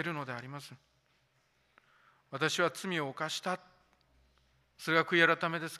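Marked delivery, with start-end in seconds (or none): 2.3-3.6 slow quote. Shown as a demonstration. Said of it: "もう一回言いますよ".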